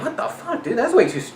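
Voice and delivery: high squeaky shocked quote; shocked disbelief. Retold or imitated. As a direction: gasp it out in shock. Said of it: "I was like".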